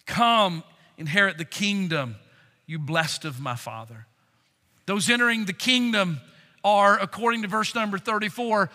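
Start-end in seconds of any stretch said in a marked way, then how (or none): 0.0-4.1 the welcome said again, dropping soft and low; quiet welcome. Shown as a demonstration. Preacher repeating Christ's welcome softly, tenderly. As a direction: let the invitation settle gently. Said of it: "Here's the way to say it".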